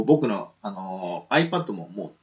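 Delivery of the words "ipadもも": laughing loudly through the words. Real, not acted. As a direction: laugh out the battery joke, much louder and higher. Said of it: "こういう悲鳴を上げておりますから". (笑いながら大声で)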